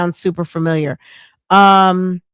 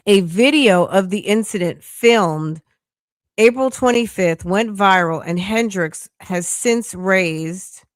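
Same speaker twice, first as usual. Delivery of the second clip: article read-aloud. Real, not acted. Reading the trial story to viewers, deliberate article read-aloud.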